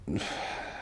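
a long breathy sigh of pain. Real, not acted. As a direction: let out a tired, aching breath. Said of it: "it really hurts".

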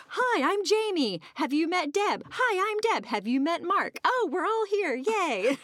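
hammed-up, high, loud gushing hello; gushing greeting. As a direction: squeal the hellos like meeting long-lost friends.

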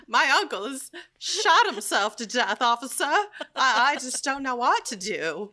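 high, loud mock sobbing; overacted weeping caller; distraught crying voice. Mock distraught police call.

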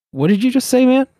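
mock-indignant confrontation; mock offended challenge. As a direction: bristle like a patriot provoked. Patriot confronting a Brit.

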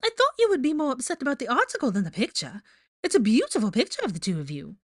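high, airy character voice; flippant, sing-song teasing. A narrator's reading. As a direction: brush him off lightly. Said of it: "she said with a flippant laugh".

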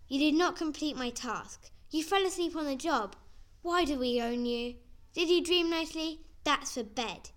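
loud, high mock ranting; retold scolding. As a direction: rant like a furious stepmother. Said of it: "she screamed at me for several minutes".

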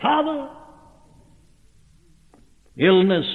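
put-on a high, sharp child's cry of "Father!"; little child bullied, screeching for his father, high cry. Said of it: "the child gives a screech".

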